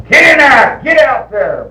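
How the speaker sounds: high, loud mock shout; imitated shrieking, bossy command; imitated squall. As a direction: yell orders like a scolding wife. Re-enacting the wife squalling orders.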